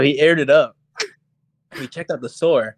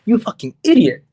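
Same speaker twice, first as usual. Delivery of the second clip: mock angry yell, higher and louder; retold yell; 7 semitones higher, 6 dB louder than usual. Telling off Steven for wasting the trip, mock yell. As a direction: snap it at the clueless friend.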